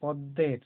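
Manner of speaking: পদ্মের with a doubled দ and no ম sound; stressed দ, silent ম. Shown as a demonstration. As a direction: press the দ in পদ্মের, dropping the ম. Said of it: "দটা জোর দিয়ে বলা হচ্ছে".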